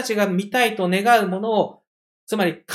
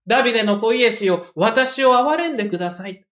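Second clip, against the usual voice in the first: loud cry; 3 semitones higher, 5 dB louder than usual. Retold or imitated. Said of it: "大きな声で叫び出しました".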